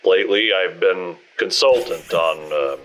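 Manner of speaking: put-on hesitant, stumbling old cop; stuttering old cop. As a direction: stammer through it, caught off guard. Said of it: "starts to stutter a bit".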